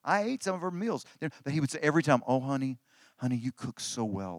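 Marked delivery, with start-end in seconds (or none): 2.2-4.4 soft, lowered, tender praise; low and gently adoring; doting husband. Retold or imitated. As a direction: imitate a husband sweet-talking his wife. Doting old husband praises her cooking.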